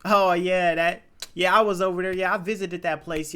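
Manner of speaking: politely proper small-talk voice; code-switched proper voice. Retold or imitated. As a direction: talk carefully, like at a work mixer. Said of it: "when I'm around white people".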